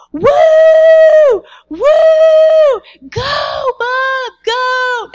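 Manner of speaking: high, loud cheering whoops; dad's cheering shout. Retold or imitated. Dad cheering his kid at the finish line, loud whooping shout. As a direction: yell him on from the finish line. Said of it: "he's going".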